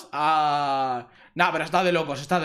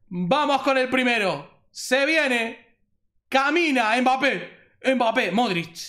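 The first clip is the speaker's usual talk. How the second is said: higher-pitched, hopeful hype; hyped anticipation; 5 semitones higher than usual. Real, not acted. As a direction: urge the pack on as it opens. Hyping up a pack as it opens. (con expectación y emoción)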